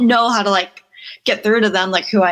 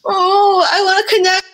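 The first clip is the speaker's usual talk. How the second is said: pleading dad; 8 semitones higher than usual. Retold or imitated. Daughter imitating her dad begging to connect, high mock plea. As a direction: plead like a hurt dad wanting closeness, pitched up. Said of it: "He's like".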